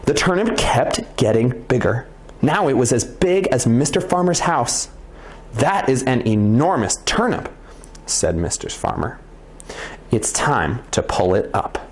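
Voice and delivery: lively read-aloud storyteller; interesting narrator voice. Shown as a demonstration. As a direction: bring the story to life. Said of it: "Let's keep reading with the "this is interesting" voice".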